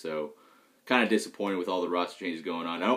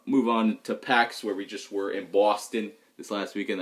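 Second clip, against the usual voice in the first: lightly put-on Boston accent. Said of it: "That's my impersonation of a Boston accent".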